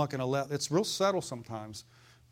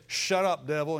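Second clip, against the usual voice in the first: firm rebuke; 3 dB louder than usual. Shown as a demonstration. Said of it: "But you just say".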